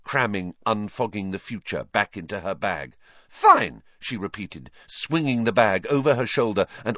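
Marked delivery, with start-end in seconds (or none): 3.3-3.8 much higher, louder cry; furious repeat. A narrator's reading. Hermione repeating herself to Trelawney, furious. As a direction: fling it back in fury.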